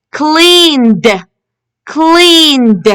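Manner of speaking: teacher's model "cleaned", ed said as d; final d sound. Shown as a demonstration. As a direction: stretch "cleaned" and release the final d. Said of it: "We can hear the d sound".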